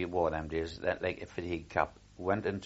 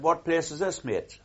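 called up high and louder toward the shore; retold shout; 9 semitones higher, 4 dB louder than usual. Soldier on a ship calling up to the dockmen, loud hail. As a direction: hail the men on the dock from the deck. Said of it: "I shouted up at them".

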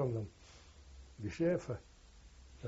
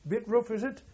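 jovial German; 10 semitones higher, 3 dB louder than usual. Retold or imitated. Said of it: "Perfect English".

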